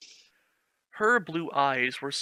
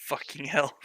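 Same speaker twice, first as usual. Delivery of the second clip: whispered curse. Real, not acted. Reader whispering a curse at the fanfic. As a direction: breathe the curse out under your breath. Reacting to the story's line.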